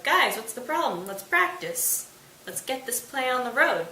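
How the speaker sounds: lightly acted cheery urging; oblivious eagerness. Oblivious Bottom urges friends to practice.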